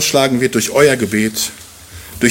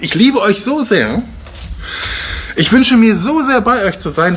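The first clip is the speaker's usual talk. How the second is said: tender Paul; 6 semitones higher than usual. Retold or imitated. Paul voiced, slow tender.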